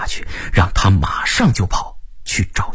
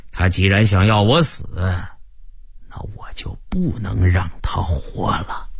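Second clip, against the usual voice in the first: lightly voiced vengeful crime boss; menacing gang boss; 2 semitones lower than usual. (略带狠劲的黑帮老大)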